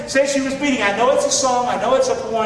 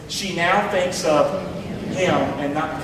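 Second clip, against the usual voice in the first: slow call and response; 3 semitones lower than usual. Shown as a demonstration. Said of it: "Could you say that with me?".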